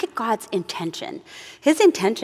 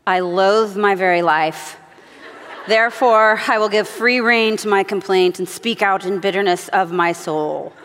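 mock bitter reading; 2 semitones lower than usual. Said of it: "this is what we don't want to think".

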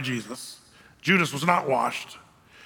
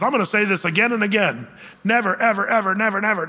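pitched-up, insistent run of "never, ever"; emphatic refusal; 3 semitones higher than usual. Acted. Peter refusing in the emphatic Greek, insistent repeated "never". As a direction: hammer each "never" and "ever" in a row. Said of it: "it's more emphatic than just".

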